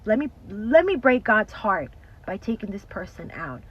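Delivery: loud, menacing voice of the devil; voicing the enemy. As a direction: speak as the enemy plotting. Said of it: "voices the enemy's thought".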